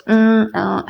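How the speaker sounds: imitated hesitation hum; filler sounds. Shown as a demonstration. Showing the sounds she avoids, imitated hesitant fillers. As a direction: demonstrate a stalling mm and uh. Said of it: "working now not to make that".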